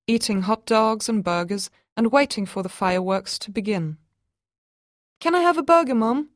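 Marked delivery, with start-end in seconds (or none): 5.2-6.3 put-on little boy asking. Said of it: "asked George".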